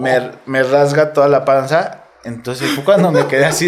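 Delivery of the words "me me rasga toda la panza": laughing. Real, not acted. Laughs while telling the attack.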